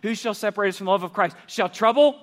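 rally the crowd for the shouted no; call and response. Real, not acted. Preacher leading the campus in shouted answers. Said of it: "I want you to shout the answer".

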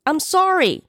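high-pitched, urgent apology; loud apology. A narrator's reading. Man to woman he frightened, loud apology. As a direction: blurt it out, pitch way up. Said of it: "he said loudly".

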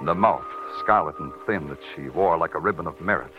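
hardboiled detective voice-over, even and world-weary; noir narration. A narrator's reading. Detective recounting the case to the listener, in hardboiled voice-over. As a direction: tell it like a tired cop looking back on the case.

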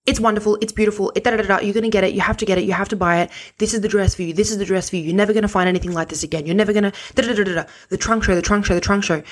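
a hint of a pushy saleswoman, rattling on. Imitating the sales assistant who would not shut up. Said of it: "she was just saying over and over again".

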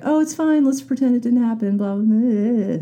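high, airy brush-off; lightly mock a fake "it's fine" chirp; sing-song denial, high and quick; mock breezy dismissal. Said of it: "I didn't just wanna switch them to, like".

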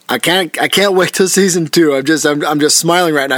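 said with a smile; smiling. Real, not acted. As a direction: let the smile come through. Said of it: "You probably can hear the smile in my voice".

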